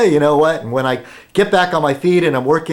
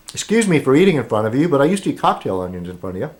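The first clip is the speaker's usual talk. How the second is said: talking while chewing a biscuit; fast words round a mouthful; mouth full; faster than usual. Real, not acted. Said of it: "speaking with food in my mouth".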